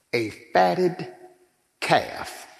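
fatted calf drawn out, calf nearly breathed; a hint of King James grandeur; mock old English. Shown as a demonstration. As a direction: savor fatted calf like scripture. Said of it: "ain't catching that old English".

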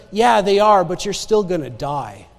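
imitating an unsoftened doctor's prognosis; blunt matter-of-fact verdict. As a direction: break bad news offhandedly. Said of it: "That's exactly how he said it".

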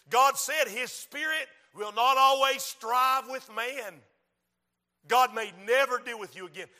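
forceful preaching. Real, not acted. Preacher warning of the last chance, forceful preaching. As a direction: preach it out to the congregation.

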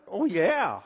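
lightly voiced Southern US reply; Southern accent. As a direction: agree with a touch of Southern accent. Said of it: "you're from down south".

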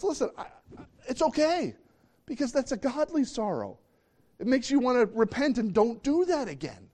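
high, lively reassurance; reassuring God. Acted. God telling believers sorrow is good, bright and encouraging. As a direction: lift it up and encourage. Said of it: "God says, Paul says".

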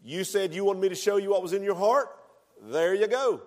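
voice of God. Retold or imitated. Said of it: "and God said".

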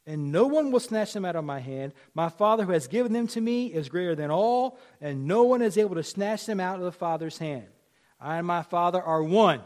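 forceful preacher reading out a verse; emphatic scripture reading. Real, not acted. Preacher reading Jesus' words to congregation, emphatic. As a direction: declare the verse with weight.

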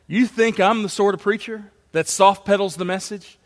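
sarcastic rebuttal of a charge. Acted. Paul sarcastically rebutting the charges against him, mock-incredulous. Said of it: "There's a touch of sarcasm in Paul's voice".

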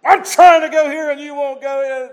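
lightly voiced annoyed prophet; mock exasperation at the donkey; exasperated rider. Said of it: "keeps on with the conversation".

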